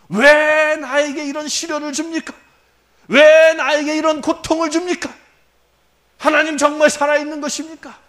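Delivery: defiant complaint. Retold or imitated. Believers complaining to God under trial, loud cry. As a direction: hurl the question at heaven. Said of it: "그러고 대들지 않습니까?".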